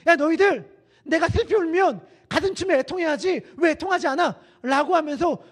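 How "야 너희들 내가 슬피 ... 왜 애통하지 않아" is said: higher, louder acted grumble; acted complaint, pitched up; complaining children. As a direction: protest like children scolding their playmates. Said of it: "라고 아이들이 불평하고".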